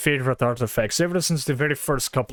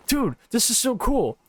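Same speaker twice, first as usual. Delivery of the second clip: mock excited fan; 7 semitones higher than usual. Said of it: "go up to the ones on display and go".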